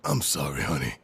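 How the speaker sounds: low-pitched, gentle apology; tender apology. Acted. Father to his daughter before leaving, tender apology.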